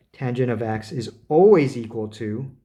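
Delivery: always leaned on with a rising lift; stress on always. Shown as a demonstration. Teacher at the board stressing always to students, emphatic. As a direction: lean into the word always. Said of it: "so let me emphasize always".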